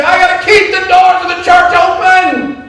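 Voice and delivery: preacher shouting his resolve; rising preacher shout. Retold or imitated. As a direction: shout it like a vow from the pulpit. Pastor's resolve rising to cry.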